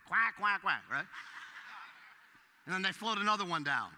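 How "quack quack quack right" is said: duck quacks. Retold or imitated. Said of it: "they don't make that noise".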